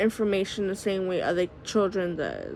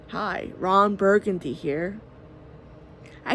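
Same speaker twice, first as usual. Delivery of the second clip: Ron Burgundy attempt; 2 semitones lower than usual. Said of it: "He goes".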